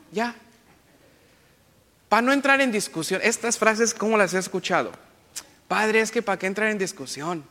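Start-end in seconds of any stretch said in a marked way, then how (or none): 5.7-7.4 light mock rural Mexican accent as a parishioner; imitated parishioner accent. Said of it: "Hasta con ese acento me lo, me lo dicen". (imitando a un feligrés con acento ranchero ligero)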